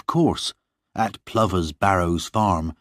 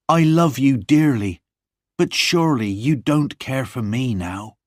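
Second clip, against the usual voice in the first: John, a little higher and louder, pleading; young John; 6 semitones higher, 3 dB louder than usual. Acted. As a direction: lovesick young farmer asking sadly. Narrator voices John.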